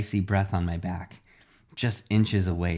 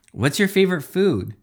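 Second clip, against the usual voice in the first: eager reporter; 9 semitones higher, 4 dB louder than usual. A narrator's reading. Reporters firing questions at hero.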